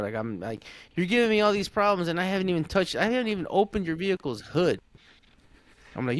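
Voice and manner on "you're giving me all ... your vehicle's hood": higher-pitched, emphatic complaint; retold exasperation. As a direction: re-enact fed-up protest to a customer. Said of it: "my emotions got the best of me".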